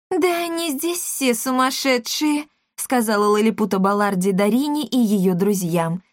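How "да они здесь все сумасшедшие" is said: higher, slow warning matchmaker; aghast matchmaker. A narrator's reading. Matchmaker warns Darina and friends, aghast. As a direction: murmur the warning aside.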